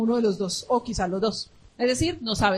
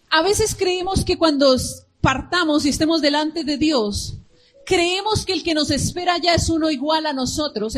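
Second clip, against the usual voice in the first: preaching shout; 4 semitones higher, 4 dB louder than usual. Acted.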